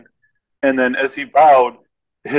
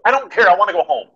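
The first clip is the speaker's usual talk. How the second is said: higher, a bored put-on whine; mock whiny crew member; 7 semitones higher, faster than usual. Dubbing crew dismissing the question, mock whiny. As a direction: whine like you just want to leave.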